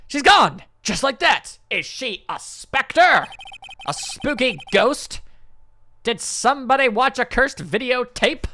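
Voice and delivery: put-on a bouncy young sidekick, half-spooked; excited girl sidekick. Maya voiced, excited game character.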